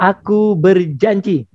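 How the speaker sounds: slow, deliberate pledge; leading a pledge. Shown as a demonstration. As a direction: spell out the promise slowly for an echo. Models the pledge again.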